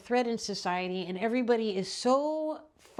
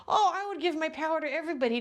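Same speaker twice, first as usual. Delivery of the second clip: mocking naive voice; 6 semitones higher, 3 dB louder, faster than usual. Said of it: "some of you guys are suckers".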